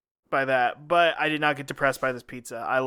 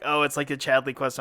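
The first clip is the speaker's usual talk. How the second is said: low, subdued mock of the cohost; unenthused imitation; 5 semitones lower than usual. Co-host imitating his partner's downbeat take, unenthused. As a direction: imitate him with low, unimpressed energy. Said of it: "more half glass full kinda guy".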